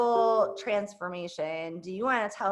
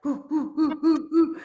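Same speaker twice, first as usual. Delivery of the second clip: rising hoots that swell louder, half laughing; hype hooting; 6 semitones higher, 4 dB louder than usual. Retold or imitated. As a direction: whoop it up like a party call. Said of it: "our calls are all like".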